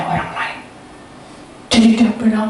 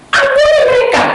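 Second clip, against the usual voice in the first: crying out; 9 dB louder than usual. Retold or imitated. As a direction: wail it out at the top of the voice. Acted cry in retold exchange.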